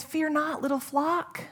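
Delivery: softly, gently lifted; loving and gentle. Acted. Jesus turning tenderly to his anxious flock, gentle. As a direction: say it like a tender comfort. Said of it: "Lovingly and gently".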